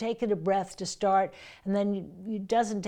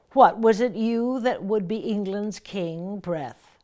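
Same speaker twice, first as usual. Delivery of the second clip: two lines carried on a single breath; verse on one breath. Shown as a demonstration. Actor showing Margaret mocking York, lines on one breath. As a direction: ride the air through both lines. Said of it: "I've just done two lines on one breath".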